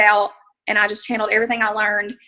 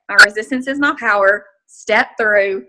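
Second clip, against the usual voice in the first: self pep talk; 5 dB louder than usual. Retold or imitated.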